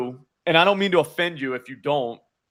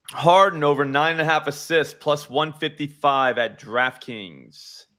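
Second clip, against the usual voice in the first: calling the bet. Acted. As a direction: announce the pick, slowing down at the end.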